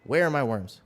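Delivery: mock indignant lizard demanding worms; lightly voiced grumpy lizard; voicing the lizard. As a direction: play the pet huffily asking for food. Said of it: "He's like".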